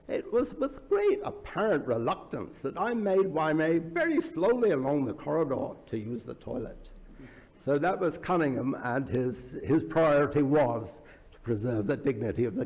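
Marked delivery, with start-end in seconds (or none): 0.1-6.9 imitated northern Irish accent, pitched up; mock-dignified storytelling in an amateur northern Irish accent. Governor recounting his reluctant walk, imitated northern Irish accent. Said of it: "I can't do the northern accent terribly well".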